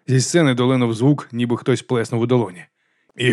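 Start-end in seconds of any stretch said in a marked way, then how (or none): none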